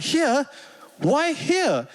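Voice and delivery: a startled, high "here?"; startled disbelief. Retold or imitated. His own startled reply.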